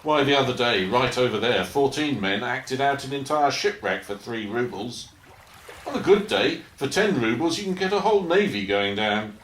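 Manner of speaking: carried away by shipwreck bargains; enthusiastic boast. Acted. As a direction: sell the marvel of it.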